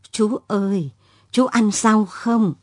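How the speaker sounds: a hint of a frail old street seller; shaky old voice. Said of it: "một giọng nói khàn khàn, run run".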